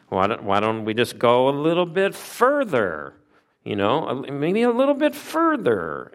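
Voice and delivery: put-on child testing the limit, pitch leaping on "further"; cheeky suggestion. Children egging each other on past Daddy's line, cheeky.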